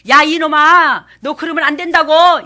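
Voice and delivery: loud, high, spiteful yell; venomous scolding yell. Shown as a demonstration. Parent yelling at a child in venomous anger. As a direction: spit the scolding out like poison. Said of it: "독이 뚝뚝 떨어지는 거하고 달라요".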